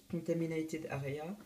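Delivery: slow, self-mocking English accent reading the sign. Shown as a demonstration. YouTuber reads an English sign to viewers, with a jokey English accent. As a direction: sound out the English words with a playful English accent. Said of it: "avec mon bel accent anglais".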